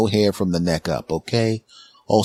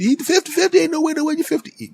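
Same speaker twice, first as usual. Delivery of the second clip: store clerk voice. Retold or imitated. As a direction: play the hyped-up shop guy calling out.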